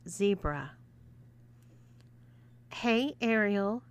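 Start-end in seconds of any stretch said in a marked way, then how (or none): 2.7-3.8 purring. Acted. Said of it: "purred Ashley".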